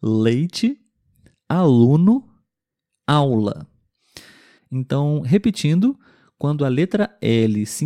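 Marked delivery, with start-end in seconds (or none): 0.0-3.7 leite, aluno, aula with the tongue tip on the palate; clear L demo words. Shown as a demonstration. Teacher models L words for learners, clearly. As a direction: model each word slowly for students. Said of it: "Mais uma vez".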